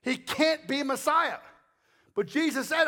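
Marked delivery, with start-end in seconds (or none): 0.0-1.4 dismissive. Retold or imitated. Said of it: "That's what they were saying".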